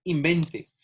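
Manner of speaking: invente with the stress on VEN, final e weak; misread without accent. Shown as a demonstration. Teacher reads invente as written, stress on VEN. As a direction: slowly sound out invente, stress in the middle. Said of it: "la pronuncio como está".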